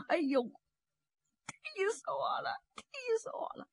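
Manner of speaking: put-on hurt old man wheezing out his complaint; old man groaning. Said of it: "站起来直嚷".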